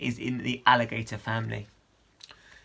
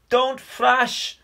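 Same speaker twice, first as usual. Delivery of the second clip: urgent command; 9 semitones higher than usual. Acted. Rescuing drowning Con.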